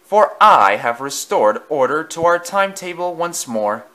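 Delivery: a proud engine crowing over its rescue; pompous declaration. A narrator's reading. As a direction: sound very pleased with yourself. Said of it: "declared eight seven five four six".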